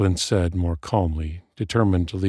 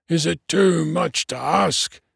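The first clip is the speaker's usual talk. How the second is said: high, put-upon dwarf voice; exasperated dwarf; 10 semitones higher than usual. A narrator's reading. Dwarf appealing to the lamp overhead, exasperated. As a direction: plead to the heavens, pitched high.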